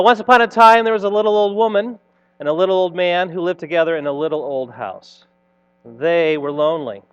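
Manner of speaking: put-on animated read-aloud for children; playful storyteller narration; story reading. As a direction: tell it like a storybook, with lively swells.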